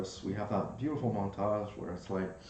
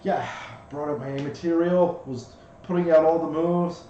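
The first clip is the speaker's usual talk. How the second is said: a bit high, louder tiny bug voice; pixie; 3 semitones higher, 6 dB louder than usual. Acted. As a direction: brag about his moves as the little bug. GM voices the ladybug.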